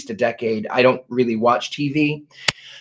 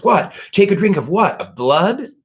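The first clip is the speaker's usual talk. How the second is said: higher-pitched incredulous questioning; mock-baffled questions; retold puzzled surprise; 4 semitones higher than usual. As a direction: imitate someone baffled, pitch jumping up. Retold Zach startled by EVP.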